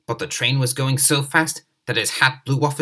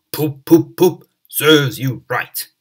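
loud, slow, mocking toots; gloating big engine; 2 semitones higher, 8 dB louder, much slower than usual. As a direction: jeer at Henry like a proud engine. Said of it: "and Gordon would say".

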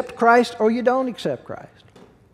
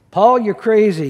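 mock Festus outburst; 3 semitones higher, 7 dB louder than usual. Festus scoffing at Paul, loud mock retort. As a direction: throw it back at Paul.

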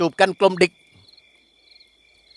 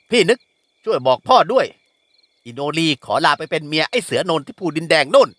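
put-on young woman. Nori bids farewell. (หญิงสาวเรียกพี่ด้วยเสียงสูงอย่างเด็ดเดี่ยว)

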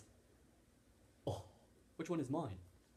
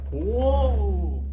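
loud high startled whoa; surprised shout; 7 semitones higher, 16 dB louder than usual. Acted. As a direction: yelp at the sudden boost. Car suddenly speeds.

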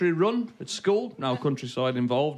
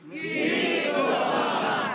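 Black Country phrase again; 11 semitones higher, much slower than usual. Shown as a demonstration. Comic repeating the phrase for the crowd, high call. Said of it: "Repeat after me".

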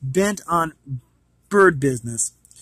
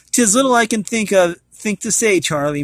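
put-on old Irish groom, raised and louder, lilting brogue; gentle Irish brogue to his old horse; Irish accent; 4 semitones higher, 4 dB louder than usual. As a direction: speak it like a kindly old Irish stableman. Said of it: "getting this accent right".

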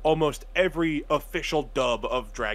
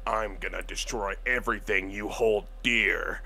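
low villain threat; Goku Black; 4 semitones lower, 3 dB quieter than usual. Retold or imitated. Quoting Goku Black's threat, low menacing impression. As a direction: intone it as a dark British villain. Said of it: "'cause he's like".

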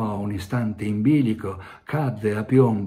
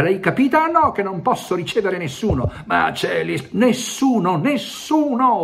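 put-on high, loud enraged shouting at the errand boy; furious yell; 11 semitones higher, 5 dB louder than usual. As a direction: blow up at him, louder each time. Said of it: "urlò imbestialito".

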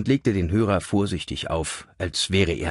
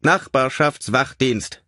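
slow, composed announcement; unruffled; 6 semitones higher, 4 dB louder, slower than usual. A narrator's reading. Mystery voice answering Richard's shouted question, unruffled. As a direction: stretch the word out, perfectly composed. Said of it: "Die Stimme blieb gelassen".

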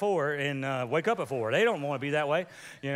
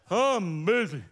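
busy through a laugh; slower than usual. Pretend. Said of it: "we're like".

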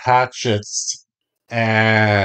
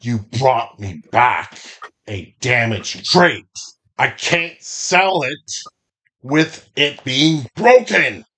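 lightly voiced stern boss, rising in pitch; deliberate rebuke, building toward the end; displeased bandit boss. Armored boss scolds two bandits over damaged crate, stern.

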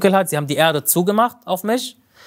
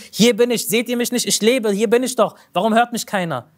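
a half-voiced cry to be seen; retold shouting; 5 semitones higher than usual. The dead sheikh cries to people who cannot hear him, higher and pleading. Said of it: "mit lautester Stimme geschrien und gerufen".

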